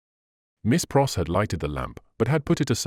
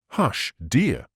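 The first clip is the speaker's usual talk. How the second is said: remonstrating. A narrator's reading. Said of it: "Lucy remonstrated".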